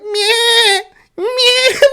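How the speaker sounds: high, loud bleating, laughing through it; lamb bleat. Retold or imitated. Retelling the lamb, high laughing bleat. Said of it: "the lamb was like".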